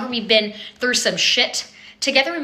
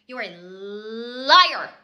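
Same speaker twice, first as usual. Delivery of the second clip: mock crying; much slower than usual.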